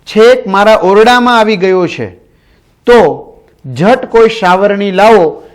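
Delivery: teacher re-voicing the old man's shouts; retold shouting. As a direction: replay the alarm with a lifted voice. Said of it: "વસંતરાય બૂમો પાડતા હતા".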